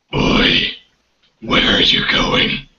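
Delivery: guard's challenge. Acted. GM voices guard challenging player.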